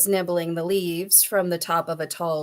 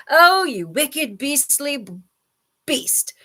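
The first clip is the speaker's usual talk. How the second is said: slow, high-pitched outrage; indignant scolding; 7 semitones higher, 4 dB louder, slower than usual. A narrator's reading. Elephant berates the child-eating crocodile, indignantly. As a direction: draw out each insult in disgust.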